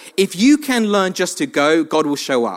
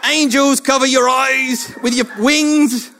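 God speaking; 5 semitones higher, slower than usual. Retold or imitated. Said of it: "almost like God was like".

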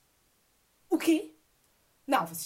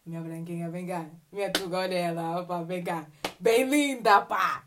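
mock affectionate calling; 8 semitones lower than usual. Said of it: "Tipo, dizer".

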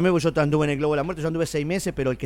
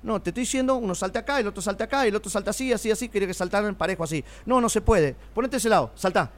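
higher-pitched acted correcting of a performer; retold quote, pitched up, insisting; imitating bossy instructor; 5 semitones higher than usual. Circus man retelling how he was told how to jump, bossy. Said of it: "ayer empezó a decir".

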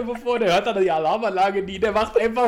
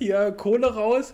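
Räuberforderung; slower than usual. Pretend. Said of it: "hält und sagt".

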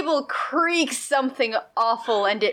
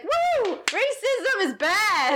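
put-on drunk cheer; 10 semitones higher, much slower than usual. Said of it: "one dude in the back is like".

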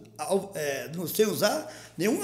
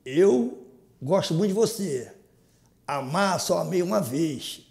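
slow, sincere declaration to wife; love declaration; slower than usual. Real, not acted. Declaring love to his wife Vanilda on camera, slowly and sincerely. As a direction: speak slowly from the heart. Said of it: "declaração de amor pra Vanilda".

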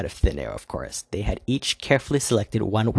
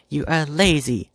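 higher and louder, shouted; shouting insult; 6 semitones higher, 4 dB louder than usual. Acted. Dark Queen yelling back at the White Queen, a shout. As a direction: yell the insult at her. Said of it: "voice rose to a shout".

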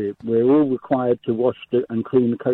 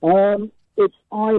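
down a well; 8 semitones higher, 3 dB louder than usual. Real, not acted. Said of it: "it sounds like you're down a well".

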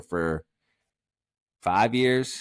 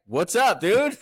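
"What's up, dude?" pitched high and louder; high buddy greeting; 11 semitones higher, 3 dB louder, slower than usual. Retold or imitated. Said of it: "just like, that's like".

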